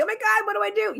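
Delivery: high-pitched retold fretting; lightly acted panic, pitch jumping up; mock panic. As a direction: imitate yourself pleading with friends. Acts out panicked appeal to friends.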